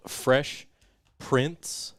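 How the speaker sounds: "Fresh Prints" said slowly, word by word; spell-it-out clarity on "Prints"; careful enunciation. Real, not acted. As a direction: draw out "Fresh Prints" so the name lands clearly. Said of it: "P R I N T S".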